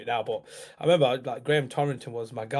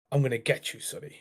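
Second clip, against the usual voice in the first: mildly menacing, name dropped to a whisper; 4 dB quieter than usual. Retold or imitated. Unseen voice threatening a child at bedtime, quietly menacing. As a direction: start level, then whisper the name. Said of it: "Like, dead menacing".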